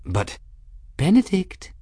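sweet, lilting appeal rising on the name; sugary gentle voice; sweetest, gentlest. A narrator's reading. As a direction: coax gently with exaggerated sweetness. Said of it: "her sweetest, gentlest voice".

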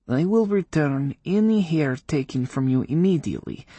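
high, stiff witch voice; grudging witch setting terms. Acted.

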